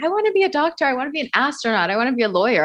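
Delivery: lightly mimicked children, quick and high at first; imitating eager kids. Guest mimicking classmates' career dreams, lightly voiced eager kids. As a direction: rattle off a kid's wish list, pitch easing down. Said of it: "all the kids that were like".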